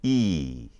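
E drawn out as a long "ee"; Mandarin one. Shown as a demonstration. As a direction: say E as a long, falling "ee". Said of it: "it's pronounced".

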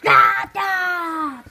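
mock yell; shout. Shouted by toy character.

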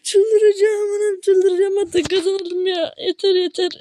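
high, loud, drawn-out rage shout; frustrated yelling. Real, not acted. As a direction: scream it like you're losing your mind over the game. Gamer loses again, explodes.

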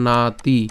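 নাতি with a long "naa", then "ti"; teacher isolating নাতি; word broken apart. Shown as a demonstration. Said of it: "এরপর হচ্ছে কি?".

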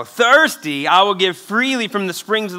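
"thirsty," called out loud to the room. Shown as a demonstration. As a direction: stir the crowd and belt "thirsty,". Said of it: "To all who are, there we go".

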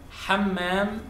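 Hammam, strong throat H and long m; Hammam with throaty H. Shown as a demonstration.

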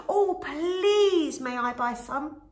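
high begging piggy voice; pleading little pig. A narrator's reading. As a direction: ask sweetly as a hopeful pig. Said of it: "she asked".

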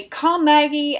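high, animated call to a dog; animated recall command, pitched well up. Shown as a demonstration. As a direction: call the dog as excitedly as you can. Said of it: "as animated as I can".

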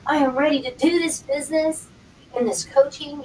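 loud, eager declaration; emphatic, mildly hyped-up enthusiasm; acted excitement. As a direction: play someone all fired up to start. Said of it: "You're all excited".

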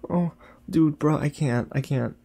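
overwhelmed, can barely watch; high worried protest, easing down; anguished dismay. Real, not acted. Anguished at Grogu in danger.

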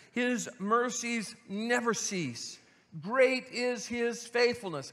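earnest, measured reading of a lament; scripture reading. Acted. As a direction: read the verses as a heartfelt cry. Reads verses twenty onward.

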